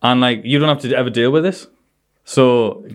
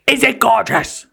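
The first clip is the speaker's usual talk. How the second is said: much higher, drawn-out question; high slow demand; 11 semitones higher, slower than usual. Retold or imitated. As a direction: press him in a high voice. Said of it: "She went".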